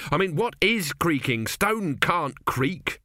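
puzzled builder. Acted. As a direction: spell out the doubt. 2B puzzles over creaking.

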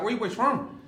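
quick, rough imitation of an Irish dude; half-hearted Irish accent; attempted Irish accent. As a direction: have a loose go at an Irish accent. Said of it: "I wish I could do an Irish accent".

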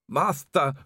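a wounded servant calling out; groaning Igor. A narrator's reading. Dying Igor.

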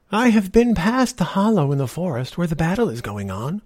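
put-on a sly old woman, sweetly persuasive; old beggar woman.

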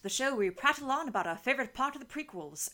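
Obi-Wan voice. Acted. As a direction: open the show like a stiff, uptight Obi-Wan. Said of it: "I'm going to use that voice for every goddamn opening".

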